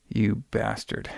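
slow, softly spoken insult; quiet retold insult. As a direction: say it low-key and drawn out, acting her out. Acted reply to the taunt.

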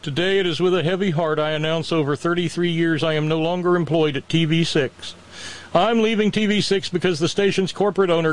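high, whiny sob-story reading; mock sad reading. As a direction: read it like a pity plea. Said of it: "cue up the tiny violin".

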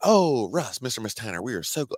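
put-on Northern US accent, gushing welcome; mock Northern accent. Recruiter greeting the Tanner family at the airport, mock Northern accent. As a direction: attempt a polite Northern voice, lightly hammed-up. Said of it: "trying to do my northern voice".

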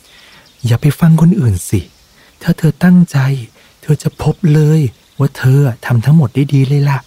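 high, eager encouraging mouse; squeaky friend urging him on; little mouse voice. A narrator's reading. Mouse urges Mode, high eager voice.

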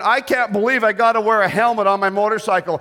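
hammed-up whiny complaint; mock whining. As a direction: whine in mock disbelief, each complaint piling on the last. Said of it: "He didn't whine".

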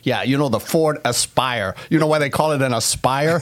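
imitated Boston radio guy; Boston accent. Car-show host joking about the Ford Aspire, Boston accent. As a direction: tell the joke in a put-on Boston accent. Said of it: "I just wanted to do my Boston accent".

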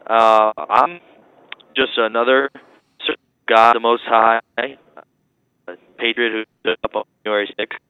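jail phone call; tinny talking telephone. Real, not acted. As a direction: voice over a crackly phone line. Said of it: "you're breaking up".

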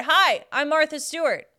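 lightly voiced Martha Stewart; barely changed Martha voice; deliberately lame Martha; Martha Stewart impression. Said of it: "my impression of Martha Stewart".

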